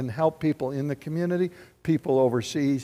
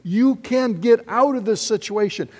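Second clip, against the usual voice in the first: encouraging; 5 semitones higher, 5 dB louder than usual. Retold or imitated. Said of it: "and said".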